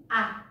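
"Ah" as an open short ah vowel; short u sound. Shown as a demonstration. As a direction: model "Ah" clearly for the class. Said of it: "can you say it with me".

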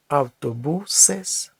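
"автобусес" very slow, stress on БУ; slow teaching demo of "автобусес", av-to-BU-ses; stress shown syllable by syllable. Shown as a demonstration. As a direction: draw out "автобусес" slowly to show the stressed БУ. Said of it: "перекидає наголос на попередній склад".

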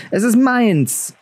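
put-on a boy clinging to what's his, grimly; grim shout. A narrator's reading. Bran defends the wolf pup, grim slow cry. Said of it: "schrie Bran grimmig auf".

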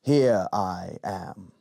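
small, very slow lizard voice; a tiny creature speaking up; quiet little voice. A narrator's reading. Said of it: "said a quiet little voice".

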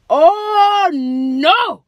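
high, loud alarmed cry; African mother's outcry. Retold or imitated. Mother sees her daughter hit, alarmed loud cry. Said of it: "So she like".

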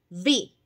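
"vi" claro y fuerte; sílaba modelo. Shown as a demonstration. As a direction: dictar la sílaba. (maestra dicta sílaba)

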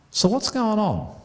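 high slow question. Real, not acted. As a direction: lift the question up to the hall.

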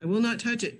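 high, recoiling refusal; mock horror. Refusing cream cheese, high hammed-up horror. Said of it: "I look at that and go".

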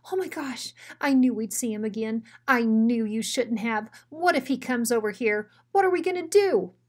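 scared little dog running off at the mouth; nervous sidekick spiraling into panic; panicky Drover. Acted. Drover panics about Bruiser.

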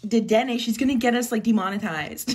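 loud, sharp call-out. Real, not acted. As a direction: raise your voice sharply. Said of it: "Sorry for yelling".

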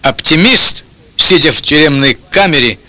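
usual speaking voice

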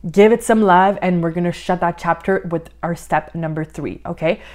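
slightly winded, breathy between phrases; out of breath. Real, not acted. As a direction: talk while catching your breath. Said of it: "I am out of breath".

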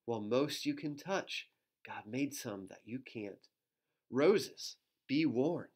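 lilting storybook read-aloud; reading to children. Acted. Reading a rhyming book to children, lilting. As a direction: read the rhyme to little ones.

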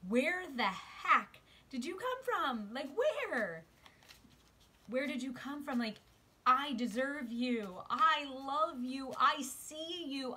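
high, loud, slow wondering voice; soulmate, amazed. Acted. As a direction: marvel aloud as the soulmate. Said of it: "looking out into the world saying".

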